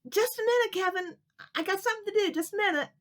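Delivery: high, sing-song putting-off; stalling mother. Acted. Mommy teaching Kevin a lesson, high sing-song stalling. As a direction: make him wait on purpose.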